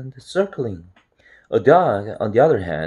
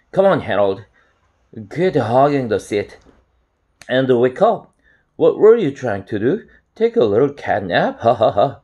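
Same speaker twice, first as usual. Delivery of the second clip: louder, pushy ribbing with a mock laugh; teasing wake-up call; 2 semitones higher, 4 dB louder than usual. Cat teases the napping narrator, teasing and loud. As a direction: needle a dozing friend, voice up. Chester wakes and teases Harold.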